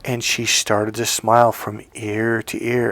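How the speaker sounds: normal talking voice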